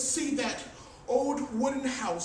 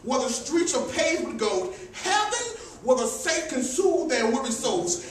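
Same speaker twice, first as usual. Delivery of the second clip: building, repeated "Heaven" refrain; preaching refrain; 3 dB louder than usual. Acted.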